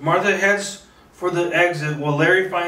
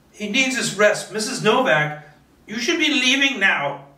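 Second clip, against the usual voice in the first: put-on hollow old woman sending him away; cold dismissal; 6 semitones higher than usual. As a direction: shut him out without feeling. Martha's expression is empty.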